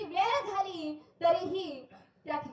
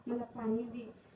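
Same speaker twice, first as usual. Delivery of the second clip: weak plea; 3 semitones lower, 6 dB quieter than usual. Acted. Weak thirsty mother pleads at night.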